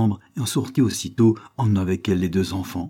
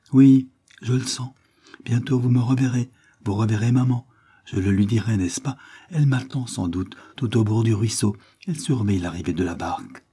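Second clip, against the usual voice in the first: put-on slightly raised voice for a trusting child; dying little boy, serene; 3 semitones higher than usual. William tells his father he will soon see mama, serene child.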